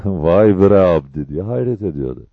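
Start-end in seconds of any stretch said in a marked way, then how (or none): 0.1-1.3 gülerek hayretle. Acted. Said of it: "İhtiyarı bir gülme aldı".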